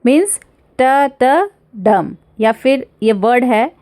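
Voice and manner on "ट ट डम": two even ट beats, then a firm landing on डम; two soft, one high. Shown as a demonstration. Teacher sounding out anapaest, stress on the final डम. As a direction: count ट, ट and drop weight onto डम. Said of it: "and one high".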